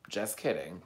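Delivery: low, soft aside; settled retraction. Real, not acted. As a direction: drop down softly after the joke. Settles down after the loud retraction.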